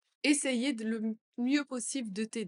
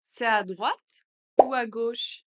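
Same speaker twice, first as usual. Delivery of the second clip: louder, slower question; 7 dB louder, slower than usual. Shown as a demonstration. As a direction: ask it out loud, slowly. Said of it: "phrase modelled twice". (plus fort et lent)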